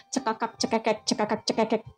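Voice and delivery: lightly mocked guffawing in words; imitated cackling. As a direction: mimic carefree cackling under your voice. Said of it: "orang-orang yang bahagianya kelewatan".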